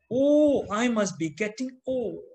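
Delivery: mock dismay. Mock inner thought of forgetful people.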